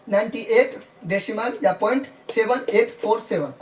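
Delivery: "सेवन, एट, फोर, सेवन" as separate digits; digit-by-digit reading. Shown as a demonstration. Teacher repeats it for English medium, "सेवन एट फोर सेवन" digit by digit. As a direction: read "सेवन एट फोर सेवन" one digit at a time. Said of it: "दशमलव के बाद अलग-अलग पढ़ेंगे".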